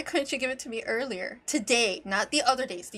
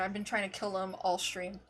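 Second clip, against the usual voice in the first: ordinary talk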